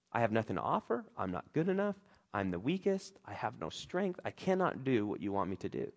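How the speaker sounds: quiet, low self-doubting murmur; inner doubts. Acted. Preacher voicing the listener's inner doubts, quiet and low.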